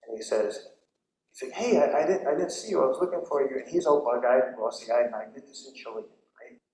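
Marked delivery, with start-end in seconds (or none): 1.6-3.6 higher and louder, eager hello; a friend who was searching, buzzing with excitement; excited friend greeting. Retold or imitated. Excited friend bumps into you.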